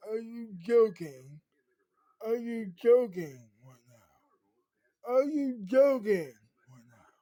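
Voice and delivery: loud incredulous shouting, building; outraged yell. Retold or imitated. Girl yelling at the lawyer about being sued, outraged shout. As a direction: shout it in disbelief, furious.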